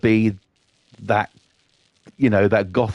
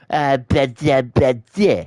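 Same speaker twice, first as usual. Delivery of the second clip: mock babble; 3 semitones higher, slower than usual. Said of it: "That's what it sounds like".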